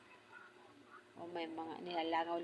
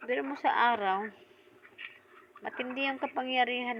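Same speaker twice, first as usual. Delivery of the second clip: loud, higher, gripping emphasis; dramatic intensity; 5 semitones higher, 7 dB louder than usual. Real, not acted. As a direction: drive it home with urgency. Dramatic build about manananggal power.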